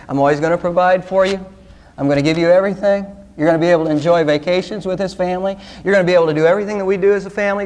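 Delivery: brisk, even-toned parent rattling off promises; lightly voiced parent. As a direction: reel it off like an easygoing parent. Acting a parent addressing the kids.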